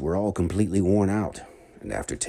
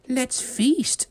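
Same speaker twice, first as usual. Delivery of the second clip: much higher festive call; cheerful call; 4 dB louder than usual. Acted. Miss Needles inviting everyone to eat, high cheerful call. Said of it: "shouted Miss Needles".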